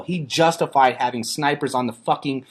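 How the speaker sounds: loud, high, furious; angry shouting. Real, not acted. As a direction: yell it out in outrage. Heated rant about snipers.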